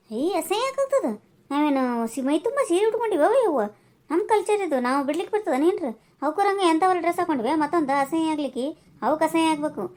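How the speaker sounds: indignant retort. Acted. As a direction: huff back at the insult, voice up.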